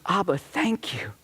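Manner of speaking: slow, breathy whispered thanks. Retold or imitated. Daughter whispering thanks to her father while hugging him. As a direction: whisper it into his shoulder. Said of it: "She goes".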